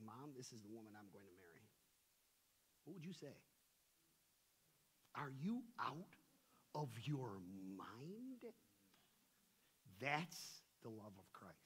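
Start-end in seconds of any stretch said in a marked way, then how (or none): 0.1-1.7 son's announcement. Acted. Son bringing home his bride. 5.2-8.5 shocked mother. Acted.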